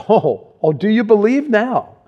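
gently mock their late belief; sanctified sarcasm. Jesus teasing his excited disciples, lightly sarcastic. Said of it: "it sounds a little bit like this".

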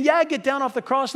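high, loud jeering shout; crowd taunt. Acted. Whole crowd yelling at Jesus on the cross, jeering. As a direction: call out like a heckler in a crowd.

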